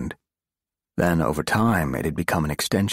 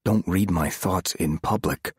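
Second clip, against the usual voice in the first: stern. Acted. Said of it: "he said a bit more sternly".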